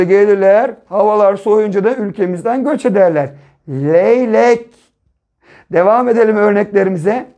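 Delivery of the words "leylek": "Leylek" in two held syllables, "ley" then "lek"; syllable-by-syllable reading. Shown as a demonstration. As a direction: sound out "Leylek" slowly for beginners. Teacher models blended word for pupils. ("Leylek" sözcüğünü heceleyerek okuma)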